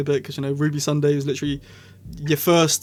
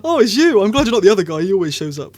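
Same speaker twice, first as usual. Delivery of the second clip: mock surprised Doctor; 3 semitones higher, 4 dB louder, faster than usual. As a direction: act the Doctor's delighted surprise. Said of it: "Ncuti was like".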